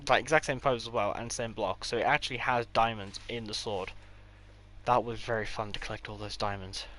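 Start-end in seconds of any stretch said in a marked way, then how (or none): 4.8-6.8 dry sarcasm; sarcastic. Real, not acted. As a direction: say it deadpan, meaning the opposite. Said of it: "That is incredibly sarcastic".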